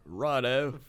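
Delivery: mock Aussie accent; playful Australian. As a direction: put on a light Australian twang. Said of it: "That was my Australian".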